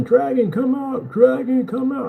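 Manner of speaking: high, drawn-out calling into the cave; slow mock shout for the dragon; hammed-up challenger calling out; mock yelling. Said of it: "you wanna keep yelling".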